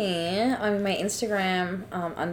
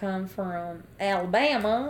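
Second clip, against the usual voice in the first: Alabama Southern accent; Southern American accent; 3 semitones lower, 3 dB quieter than usual. Shown as a demonstration. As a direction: put on an Alabama drawl. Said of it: "can you try a Southern American accent".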